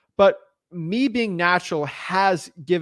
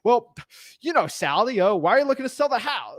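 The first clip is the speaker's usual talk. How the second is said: a hint of a fake salesman, pitched a little higher; lightly mock the canned sales pitch; mimicking stiff callers, a hint of salesman; weird sales voice; 5 semitones higher than usual. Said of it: "they start talking like this weird sales, like, thing".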